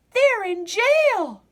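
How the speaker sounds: high, loud, slow alarmed cry; cried out. A narrator's reading. Dots finding the crew locked up, loud high cry. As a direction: cry out the bad news. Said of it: "cried Dots".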